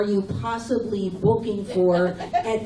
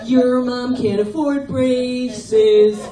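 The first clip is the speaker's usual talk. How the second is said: taunting bully voice; 4 dB louder than usual. Retold or imitated. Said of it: "He'd be like".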